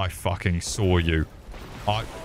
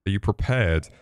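hyped build-up; 2 semitones lower than usual. Real, not acted. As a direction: rev the viewers up for the rage. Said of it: "ready to see my Dark Souls rage".

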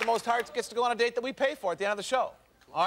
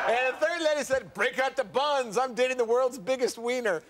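higher-pitched announcer delivery; showman read-out; 4 semitones higher than usual. Acted. Host reads the third lady's insult, showman announcer voice. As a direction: draw out the quote for a laugh.

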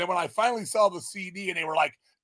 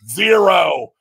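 shouted verdict; 3 semitones higher, 10 dB louder than usual. Real, not acted. Shouted rating of record.

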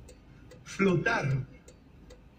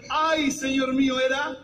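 mock distressed cry; 4 semitones higher than usual. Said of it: "gritando, diciendo".

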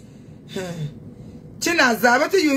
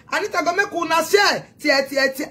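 taunting shout; 5 semitones higher than usual. Real, not acted. Shouting at rival fans, gloating taunt. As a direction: shout the threat with relish.

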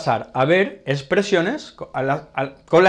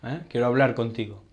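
tender request to partner. Shown as a demonstration. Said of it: "Podemos decirle".

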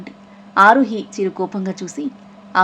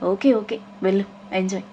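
naughty teasing; 4 dB quieter than usual. Acted. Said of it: "Aaruhi నాటీగా అంటుంటే".

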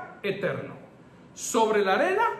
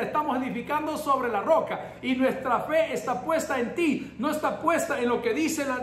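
raised, lively thanksgiving prayer; joyful prayer; 3 semitones higher than usual. Retold or imitated. Pastor retelling the street prayer of thanks, joyful and raised. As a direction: praise God with rising joy. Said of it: "ahí le dijimos".

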